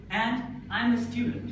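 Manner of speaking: statement dropping away on "student"; falling intonation. Shown as a demonstration. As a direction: bring the voice down on "student".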